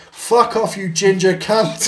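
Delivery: high, drawn-out mock yell; retold yelled insult. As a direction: imitate a cousin yelling abuse from the pool. Cousin yells abuse at the man.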